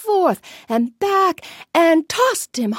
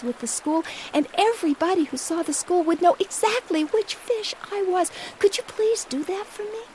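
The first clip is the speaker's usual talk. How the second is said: pleading fish; 2 semitones higher, 3 dB quieter than usual. Acted.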